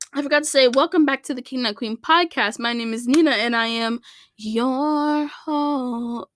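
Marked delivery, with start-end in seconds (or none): 2.6-6.3 drawn-out host line that breaks off; host intro voice. Acted. Podcaster's first try at her intro, slow and stretched. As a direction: start the host intro, then falter. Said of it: "my voice is cracking".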